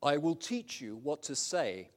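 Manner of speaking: slow, mildly annoyed God voice; a touch of divine irritation; slightly annoyed. Acted. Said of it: "God, slightly annoyed".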